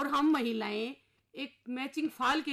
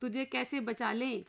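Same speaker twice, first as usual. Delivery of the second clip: slow, measured verse recitation, a touch louder; poem recitation; 3 dB louder than usual. Acted. Henpecked husband reciting his plea to the inspector, slow verse.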